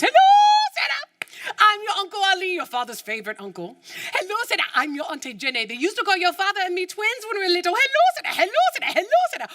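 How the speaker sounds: high, bright chorus of eager relatives; cheery relatives on the phone. Retold or imitated. Relatives phoning the long-lost niece, high and eager. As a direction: greet her like delighted aunties and uncles.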